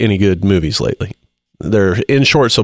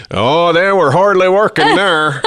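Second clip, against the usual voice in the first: put-on northern accent; 8 semitones higher, slower than usual. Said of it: "that was really good".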